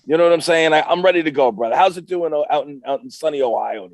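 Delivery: loud, high hyped-up wrestler; wrestler promo voice. Acted. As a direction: cut a promo like a pro wrestler. Guest's wrestler persona hype talk.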